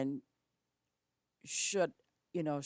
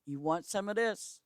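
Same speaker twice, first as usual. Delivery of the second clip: nicely; 3 dB louder than usual. Retold or imitated. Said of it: "very nicely".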